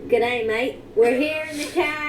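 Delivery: playful put-on Aussie accent; mock Aussie accent. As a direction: lay the Aussie accent on thick for fun. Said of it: "That was my best Aussie accent".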